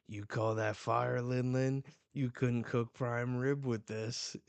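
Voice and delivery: mildly cocky jab at her attack; mocking taunt. Garp taunting Big Mom after blast.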